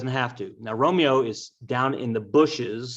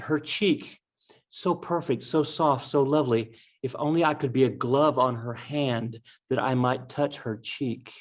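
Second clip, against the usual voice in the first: lightly swooning, lingering on each word; dreamy, mildly hammed-up lover's voice; lovestruck Romeo, lightly acted. Romeo gazing up at Juliet, mildly swooning. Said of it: "I'm paraphrasing".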